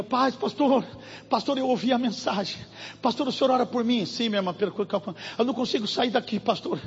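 quiet, fast, anxious pleading; a frightened believer whispering on the phone; frightened phone plea. Retold or imitated. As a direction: beg the pastor in a hurry, scared. Woman calls pastor, frightened.

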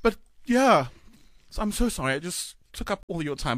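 teary, apologetic; fighting back tears; crying. Real, not acted. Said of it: "I don't mean to cry".

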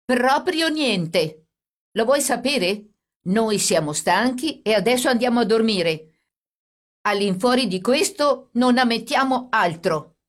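high, loud, slow defiance; agitated, emphatic protest; fearful anger. A narrator's reading. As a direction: refuse hotly, drawing out the first words. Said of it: "tremante di paura e di collera".

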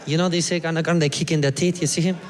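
imitated Costa Rican accent; eager local storyteller with a Costa Rican accent; lightly accented Costa Rican guy. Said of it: "And he's like".

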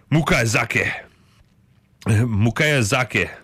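put-on amateur Japanese accent; careful stab at a Japanese accent; attempted Japanese accent. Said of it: "get better at these accents".

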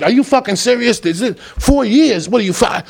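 high, stunned questions; can't believe the sentence; hearing four years in court; shocked disbelief. Retold or imitated.

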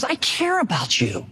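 slow, earnest and heartfelt; mean every word of it; slow sincere caring tone; sincere concern. Shown as a demonstration. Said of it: "communicating his sincere concern".

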